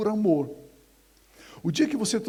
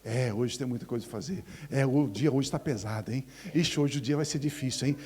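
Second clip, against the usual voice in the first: lower, mopey moaning voice; grumbling complainer; 5 semitones lower than usual. Retold or imitated. Complaining believer waking up to the day, low and glum. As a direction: sigh through the day's complaints. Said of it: "levantar de manhã e dizer".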